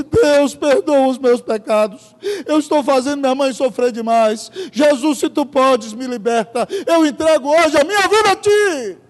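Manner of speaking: slow, rising surrender prayer; understated broken-hearted prayer; lightly voiced repentance. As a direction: give your life over, pleading. Son's repentant prayer retold.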